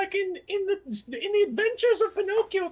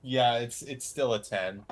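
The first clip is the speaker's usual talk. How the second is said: much lower put-on puppet voice; deep Pinocchio voice; slower than usual. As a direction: growl it low as the puppet.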